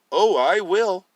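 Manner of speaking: high, loud knowing reply; sinister promise. Acted. Daniel promising his father, high, loud and sly. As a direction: say it with hidden menace.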